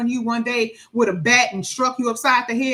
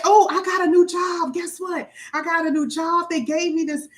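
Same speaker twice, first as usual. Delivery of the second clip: eager, raised announcing a new job; imitated excitement; 5 semitones higher than usual. Telling family about a new job, eager and raised. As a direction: burst out with the good news. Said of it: "you're excited".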